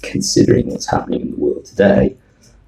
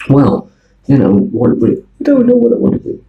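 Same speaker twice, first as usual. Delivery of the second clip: put-on Chinese accent; 9 semitones higher, 5 dB louder than usual. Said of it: "with a very hard Chinese accent".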